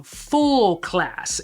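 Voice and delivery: "class" with emphasis on its "ass" part; stress on class. Real, not acted. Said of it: "emphasis on the ass part".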